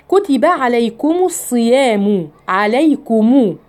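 slow tajweed reading, عليكم with a sounded ضمة on the ميم; slow recitation. Shown as a demonstration. Teacher recites the verse for her students. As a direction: draw the verse out slowly. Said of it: "الميم هنا مضمومة".

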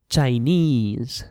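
"Chinese" with the second syllable stressed; "Chinese" as chiNESE, ending drawn out; final-syllable stress. Shown as a demonstration. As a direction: lean on a long "nese" in "Chinese". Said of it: "falls on the final syllable".

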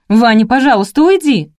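high, loud tearful plea; sobbing plea. A narrator's reading. Crying heroine begs Vanya to leave, tearful. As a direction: beg him to leave through sobs. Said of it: "всхлипнула я".

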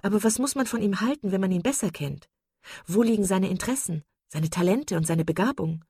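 eifrig, höher und schneller drängend; leidenschaftliche junge Frau. Acted. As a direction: wie ein begeistertes Mädchen nachbohren. (Marian fragt Sir John ungeduldig nach Willoughby aus)

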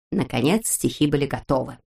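ordinary delivery

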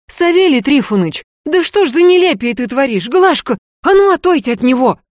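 bride's mother pleading with the sorcerer in alarm. A narrator's reading. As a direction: beg him to stop in alarm.

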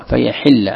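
"فيحل" with a short i on the ح; kasra on ḥā’. Shown as a demonstration. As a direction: say "فيحل" as fa-yaḥilla, with an i after ḥ. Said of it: "كسر الحاء". ("فيحل" بكسر الحاء)

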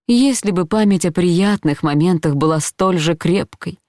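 ordinary delivery

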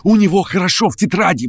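high, excited rant; feverish plotter. A narrator's reading. Verkhovensky ranting to Stavrogin about his plans, high and feverish. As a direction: rave and persuade.

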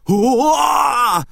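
a high, loud cry of sudden fright; terrified yell. Acted. Naita cries out in terror at the possessed woman. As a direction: yelp in sheer terror. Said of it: "это кричал Найта".

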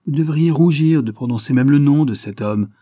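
loud, high-pitched reproach; angry scolding. Acted. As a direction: berate with outraged force. Furious father scolds daughter.

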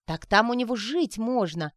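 high, loud delighted exclaim. Acted. Sonechka exclaiming to Arina, delighted. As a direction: burst out with delight. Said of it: "воскликнула она".

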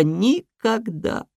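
slow, anguished, high cry. Acted. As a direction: wail it out in despair. Hare's despairing outcry, slow.

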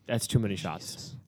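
slow, whispered verdict; soft whispered agreement; hushed aside. Real, not acted. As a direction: say it under your breath, slowly. Hushed agreement about too many shots.

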